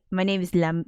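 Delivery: lightly Frenchified English; a hint of French accent; put-on French accent. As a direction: attempt a French accent, breaking off. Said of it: "is he actually French? Is he like".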